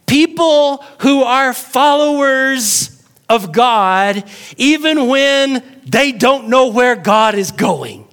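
slow high sermon climax over music; preaching at full force. Real, not acted. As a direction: lean into each word like a revelation.

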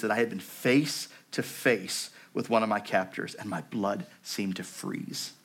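subdued memoir reading with long pauses; grave story reading. A narrator's reading. Survivor recalling facing her former captor, grave story reading. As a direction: read it gravely, letting each phrase settle.

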